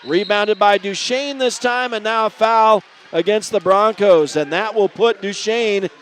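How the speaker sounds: energetic basketball commentary; live play-by-play. Real, not acted. Radio announcer calling a first-quarter game, live play-by-play. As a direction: call the action as it unfolds.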